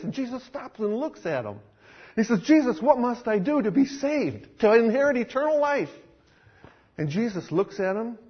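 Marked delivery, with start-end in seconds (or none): 2.4-5.9 high, urgent question; eager plea. Acted. Violinist begging Jesus for eternal life, eager and high. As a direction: ask it breathlessly, reaching up.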